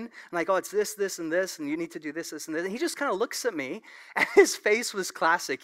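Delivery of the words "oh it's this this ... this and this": know-it-all patient. Retold or imitated. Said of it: "using all this fancy dentist jargon".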